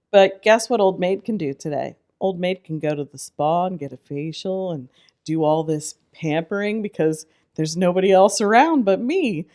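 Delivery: loud, upbeat retort; upbeat comeback. Retold or imitated. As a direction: bounce back cheerfully. Retold comeback to inner voice.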